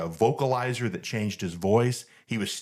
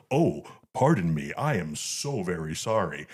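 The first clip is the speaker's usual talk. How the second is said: lightly lowered Vader voice, apologetic; a hint of Vader saying sorry; polite Darth Vader; 4 semitones lower than usual. Vader apologizing to the fan behind him, lightly lowered Vader voice. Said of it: "The Dark Lord of the Sith apologized".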